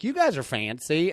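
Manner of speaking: put-on lisping Midwest accent, pronouncing "fancy"; a touch of Midwest accent with a lisp. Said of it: "said it with that, uh, Midwest accent".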